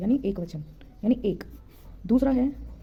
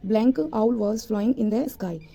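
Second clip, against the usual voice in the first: slow dictation; much slower than usual. Shown as a demonstration. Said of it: "reads example sentence slowly".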